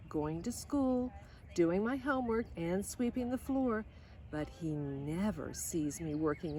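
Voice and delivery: put-on lively storybook reading of a girl's letters; reading to children. A narrator's reading. Reading Lydia Grace's letters home to listening kids, storybook voice. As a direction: read it like a bedtime story, bright and gentle.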